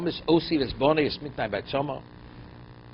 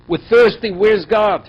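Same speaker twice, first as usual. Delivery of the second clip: loud, higher mock protest "We're thirsty, where's God?"; mock complaint; 5 semitones higher, 9 dB louder, slower than usual. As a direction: cry out the grievance like the thirsty crowd. Teacher acts out people's complaint.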